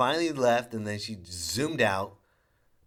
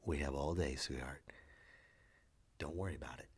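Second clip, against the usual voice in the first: put-on soft, lower, patient soothing to his kid; calm her down gently, sweetheart; a touch of a tender father; reassuring dad; 4 semitones lower, 4 dB quieter than usual. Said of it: "I was".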